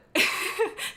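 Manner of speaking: silent, airy laugh; breathy laugh. Real, not acted. Laughs at own story.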